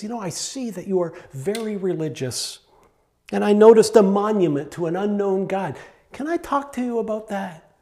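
courteous, tactful address to strangers; polite, respectful. Retold or imitated. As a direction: ask respectfully, lifting the pitch on the request. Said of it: "He's so polite. He's so respectful".

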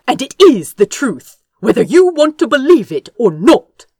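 sharp, brisk and tart, pushing ahead. A narrator's reading. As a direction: cut him off with a tart edge. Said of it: "Azra continued tartly".

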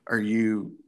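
mock-Russian raffle host; imitated Russian accent. Raffle caller questioning the winner, imitated Russian accent. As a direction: ask in a put-on Russian accent. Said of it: "in Russian, he's like".

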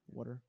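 "Water" with a local New Jersey vowel; regional pronunciation. Shown as a demonstration. New Jersey guest demonstrating "Water", said a bit weird. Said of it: "I say water real weird".

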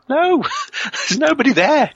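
high-pitched, drawn-out protest with laughter; slow, exasperated reply breaking into a laugh; laughing denial. Retold or imitated. Campers answer spooked friend Tim, laughing denial.

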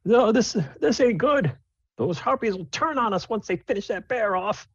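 high-pitched gruff dwarf woman; dwarven woman voice. Acted. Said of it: "the dwarven woman says".

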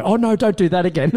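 a hammed-up plea to stop; mock dread. Passengers begging the mechanic not to open it, mock dread.

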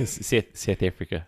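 halting attempt at a South African accent; badly faked South African accent. Shown as a demonstration. Co-host failing to show his childhood accent, tentative South African. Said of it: "I can't even do it in South Africa".

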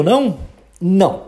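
ordinary talk, nothing marked

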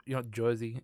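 put-on a touch of Jersey accent on "Jersey"; quick mock New Jersey accent. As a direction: say "Jersey" as "Joisey", lightly mocking New Jersey. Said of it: "like, the accent".

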